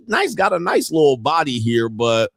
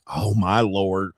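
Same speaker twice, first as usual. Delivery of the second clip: weary exasperation; 7 semitones lower, 4 dB quieter, slower than usual. Retold or imitated. Voicing the fed-up man on screen.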